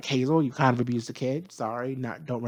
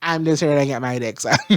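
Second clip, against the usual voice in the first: careless attitude; 2 semitones higher, 5 dB louder than usual. Retold or imitated. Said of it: "Mercury's energy is like".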